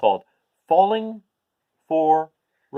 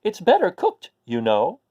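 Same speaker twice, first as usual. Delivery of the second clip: mock yell; 4 semitones higher than usual. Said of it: "She yelled".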